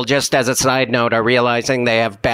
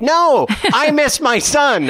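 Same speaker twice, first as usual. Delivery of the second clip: lady's wistful reply; 12 semitones higher, slower than usual. Retold or imitated. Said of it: "And she's like".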